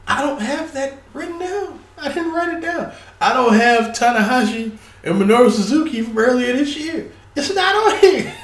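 high, laughing disbelief. Real, not acted. Laughing at his own omissions.

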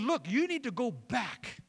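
the angel blessing Hagar, building with fervor; angel's promise. Retold or imitated. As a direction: swell it like a preacher giving God's blessing. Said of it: "And what he says is".

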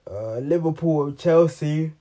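talking through a yawn; words stretched by a yawn. Real, not acted. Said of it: "sorry about the yawning".

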